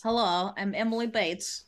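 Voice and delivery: lightly put-on character greeting. Player introducing herself to viewers, put-on voice. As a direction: introduce yourself in a faint character voice. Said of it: "I don't know why I did that voice".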